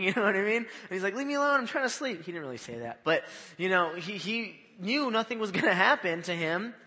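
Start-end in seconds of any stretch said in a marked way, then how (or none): 1.1-2.2 high-pitched, jokey protest at being woken; mock sleeper's grumble. Sleeper to the disciples waking him, mock annoyed. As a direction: imitate someone pestered out of sleep.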